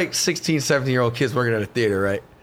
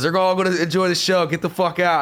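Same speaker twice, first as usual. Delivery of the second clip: mock yell; 6 semitones higher than usual. Rogan kicking heckler out.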